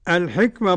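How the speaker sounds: الحكمة with its last vowel tilted towards e; imala of the ending. Shown as a demonstration. Sheikh shows al-Kisa'i's reading, imala ending on الحكمة. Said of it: "للكساء بالإمالة".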